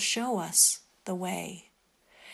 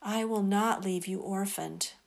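guided meditation; 4 dB quieter than usual. Acted. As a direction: lead them calmly into prayer. Quoting Jesus in meditation.

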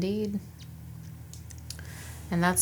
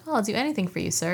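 higher-pitched mock-eager reply; eager subordinate; 5 semitones higher, much faster than usual. Kara eagerly answering her commander's request, eager imitation. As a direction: lightly imitate an obliging junior officer.

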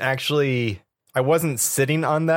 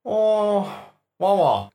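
droid babble; 7 semitones higher, much slower than usual. Acted. Droid noises.

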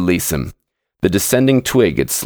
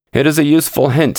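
higher, quick, fierce retort; 8 semitones higher, faster than usual. Acted. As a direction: spit the line back at him, fast and fierce. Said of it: "said Ulrich fiercely".

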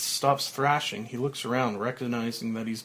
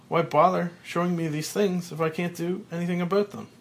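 stunned disbelief; 6 semitones higher than usual. Acted. Frank at his own grave, high disbelieving outcry. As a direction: refuse to believe you're dead.

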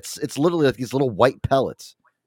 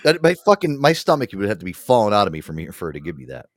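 usual speaking voice

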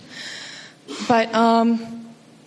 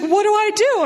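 mock panicked mom; 10 semitones higher than usual. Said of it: "she starts freaking out".

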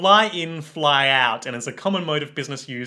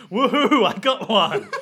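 hooting mock cheer, louder and higher; 6 semitones higher, 5 dB louder than usual. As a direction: holler it like a happy crowd. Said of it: "cheering and hooting and hollering".

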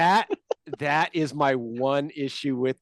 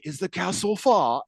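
put-on struggling British accent; 3 semitones higher than usual. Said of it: "him and accents kinda struggle".

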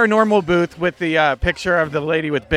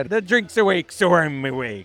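put-on Irish accent. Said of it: "It's also a little bit of a pirate accent".

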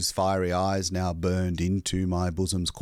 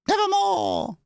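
high, loud raven screech; raven shriek; 4 dB louder than usual. Acted. Bird replying to the narrator, loud raven screech. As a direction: cry it out like a bird. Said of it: "Quoth the raven".

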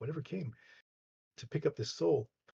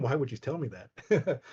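laughing protest; 2 semitones higher, 5 dB louder, slower than usual. Retold or imitated. Laughs at own retold protest.

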